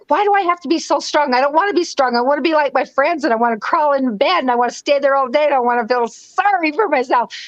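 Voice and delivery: retold self-directed complaint, mildly exasperated; mad at herself. Woman retelling being mad at herself, mildly exasperated. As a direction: complain at yourself in a rush of mock protest. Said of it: "I always was so mad at myself".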